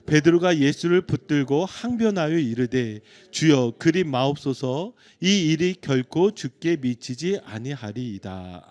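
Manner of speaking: slow, loud unison scripture reading; congregational reading. Real, not acted. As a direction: read the verse aloud together with the congregation, slowly. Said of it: "우리 같이 한 목소리로 읽겠습니다".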